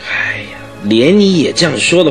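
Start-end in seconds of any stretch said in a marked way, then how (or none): 0.1-0.6 resigned sigh. Acted. Sighs at baffling case.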